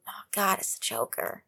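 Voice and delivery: whispered dread, almost silent; hushed fearful gasp. Shown as a demonstration. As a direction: breathe it out in hushed fear. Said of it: "like that".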